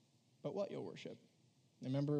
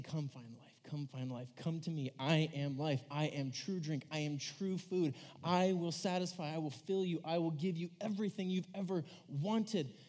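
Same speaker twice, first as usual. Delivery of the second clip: tender invitation. Retold or imitated. Jesus' invitation voiced.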